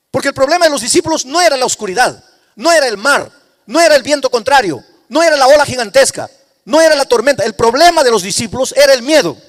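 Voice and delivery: loud, rising sermon climax, each phrase hammered; full-force preaching. Acted. Pastor driving his point home to the congregation, loud fervent preaching.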